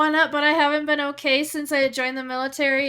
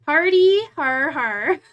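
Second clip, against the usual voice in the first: mock laugh; 6 dB louder, slower than usual.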